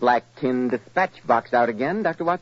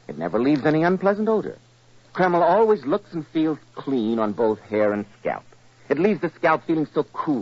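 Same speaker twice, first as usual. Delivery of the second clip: persuasive vintage radio commercial; ad read. Acted. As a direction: sell the hair tonic to the men listening. Announcer reads hair tonic ad.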